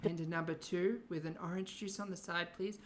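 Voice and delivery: sweet high drive-thru order voice; McDonald's drive-thru voice. Retold or imitated. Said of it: "this is her McDonald's drive-thru voice".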